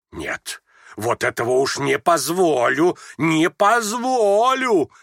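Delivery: всё громче, последнее «позволю» высоко и медленно; гневно запрещает дочерям смеяться; вскипевший гнев. A narrator's reading. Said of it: "вскипела вдруг гневом Лизавета Прокофьевна". (вскипевшая гневом мать)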